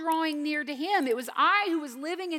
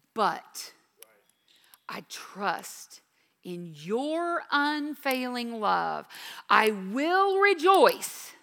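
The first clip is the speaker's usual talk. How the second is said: slow confident trust; 2 semitones lower, slower than usual. Acted. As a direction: build from hushed trust to rejoicing.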